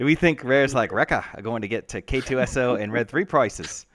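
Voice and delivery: put-on a light New Zealand accent; a hint of a New Zealand accent, lightly done; Murray New Zealand accent. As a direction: play it like a Kiwi from a comedy show. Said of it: "you sounded like Murray".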